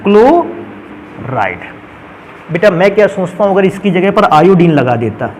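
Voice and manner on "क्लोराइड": क्लोराइड stretched very slowly and softly, syllable by syllable; drawn-out ending. Shown as a demonstration. Teacher dictating the chloride name, very slow and soft. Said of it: "chlorine लगा इसलिए".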